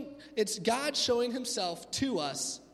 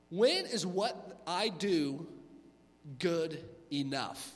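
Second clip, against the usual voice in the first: weary doubt; 3 semitones lower, much slower than usual. Retold or imitated.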